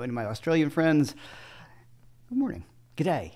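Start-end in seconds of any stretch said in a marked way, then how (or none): 2.3-2.6 high, hammed-up Aussie twang on good morning; a jokey, overdone Australian greeting; bad Australian accent. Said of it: "It's my terrible Australian accent". 3.0-3.3 put-on terrible Australian accent. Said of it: "It's my terrible Australian accent".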